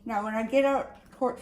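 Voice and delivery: talking with a clip in the mouth; words around a hair clip; mouth full. Real, not acted. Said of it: "sorry, I got a clip, a clip in my mouth".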